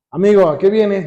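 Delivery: lightly sarcastic challenge to a friend. Acted. Preacher shows how Jesus did not greet Judas, mildly sarcastic. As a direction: put a touch of sarcasm on it. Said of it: "no crean que fue Jesús como sarcástico".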